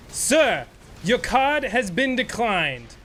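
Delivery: condescending mock clerk; lightly voiced rude clerk. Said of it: "I was just doing his rude ac".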